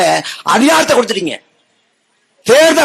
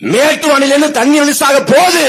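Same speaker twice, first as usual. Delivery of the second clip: higher-pitched public announcement; imitated official call, pitched up; mock proclamation; 4 semitones higher than usual. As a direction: proclaim it as a minister should have. Voices announcement minister should have made.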